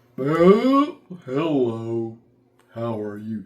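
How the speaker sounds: goopy, slow, slurred dopey drawl with long oh. Speaker demonstrating ways to make character voices, in a goopy, dopey voice. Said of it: "The second way is goopy or dopey".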